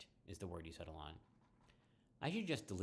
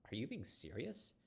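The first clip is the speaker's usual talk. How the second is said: whisper; 4 semitones higher than usual. Acted. Whispered question to Riley.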